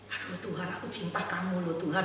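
mock syrupy prayer. Preacher mocking a hypocrite praying sweetly, softly. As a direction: coo it like a fake-pious believer.

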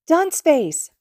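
put-on high, loud child's shout; excited yell. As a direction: shout it out gleefully. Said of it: "Izuku yelled".

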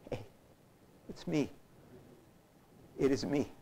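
soft, low-key acted greeting; gentle reassurance. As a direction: voice a tender, softly spoken reassurance. Voices risen Jesus greeting the women.

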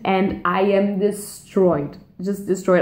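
drawn out and slow, overwhelmed by the book; dazed, slow confession of being wrecked; slow, stunned destroyed. Real, not acted. Reading ending, overwhelmed.

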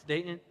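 "Dayton" as Day'n, no T; T dropped in Dayton. Shown as a demonstration. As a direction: leave the T out of "Dayton". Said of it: "they don't pronounce the T".

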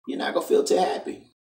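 high, breathy whispered echo of the warning; whispered repeat. Shown as a demonstration. Vlogger warning young women, echoing himself in a whisper. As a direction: hush it like a creepy aside.

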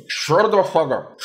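high, slow, exasperated shutdown; mock-angry yelling. Real, not acted. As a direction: cut the naysayer off with a drawn-out yell. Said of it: "I'm sorry I'm always yelling at you".

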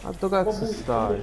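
high, slow, disbelieving call; where the hell are you, stretched out; exasperated shout. Real, not acted. Friend missing in game.

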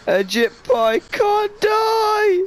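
drawn-out war cry. Pretend. Battle cry after rallying shout.

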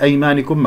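أيمانكم read "aymanikum"; kasra on nun. Shown as a demonstration. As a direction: sound an i after the nun in أيمانكم. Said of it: "مكسورة".

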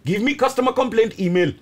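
put-on light comic Indian accent. Acting out the old man's customer complaint, mock Indian accent. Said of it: "I'm allowed to put on accents".

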